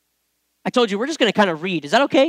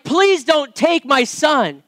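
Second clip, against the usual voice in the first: desperate plea; 3 semitones higher, much slower than usual. Retold or imitated. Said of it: "what came out of my mouth was like".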